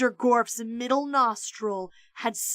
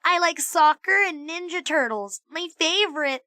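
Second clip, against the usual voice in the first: put-on high, bouncy little girl; like a bouncing super ball; energetic little girl; 6 semitones higher than usual. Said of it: "full of energy, like a super ball".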